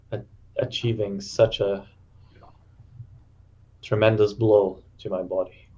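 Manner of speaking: halting, with long pauses between phrases; lightly played injured man catching himself; wounded warrior. Wounded fighter answering his companion after the blow, weakly halting.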